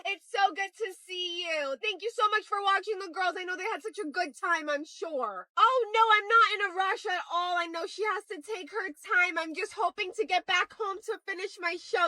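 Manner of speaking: high, sugary politeness; high-pitched social niceness; fake pleasant. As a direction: coo politely to hide the impatience.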